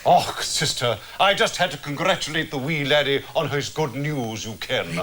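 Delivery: overdone fake Scottish burr; hammy Scottish accent. Mister McTavish congratulating the laddie, hammy Scottish accent. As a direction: ham up a patient's Scottish accent. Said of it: "rest that accent".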